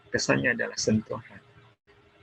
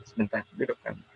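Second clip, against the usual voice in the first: a mild demo of a scolding mother, mostly softer; mock-stern scolding, held back rather than shouted; angry mother; 3 semitones higher, 3 dB quieter than usual. Shown as a demonstration. Mother scolding her child for skipping prayer, mildly mock angry. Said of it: "pakai ekspresi marah".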